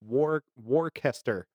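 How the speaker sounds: Worcester sounded out as "war-kester"; phonetic misreading. Shown as a demonstration. Guessing at the spelled town for a co-host, Worcester as "war-kester". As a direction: say Worcester slowly, with a hard K in the middle. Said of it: "how to pronounce it phonetically".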